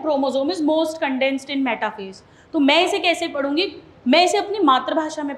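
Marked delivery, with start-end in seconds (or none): 0.0-2.2 slow dictation. Shown as a demonstration. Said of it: "reason दिया हुआ है".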